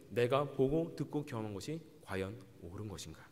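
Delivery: normal talking voice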